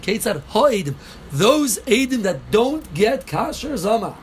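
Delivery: Ha'idim stressed, the line drawn out slowly; emphasize Ha'idim. Shown as a demonstration. Teacher stressing Ha'idim for the class, slow. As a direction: lean on Ha'idim and stretch it. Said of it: "We gotta emphasize the word Ha'idim".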